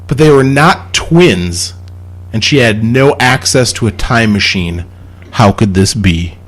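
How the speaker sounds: measured read with pauses between clauses; reading a riddle aloud. Real, not acted. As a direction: lay out the puzzle clause by clause. Reads out a riddle.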